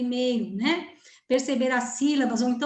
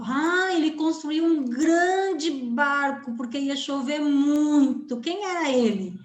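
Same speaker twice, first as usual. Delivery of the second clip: put-on quiz voice to child; 3 semitones higher, slower than usual. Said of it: "Por exemplo".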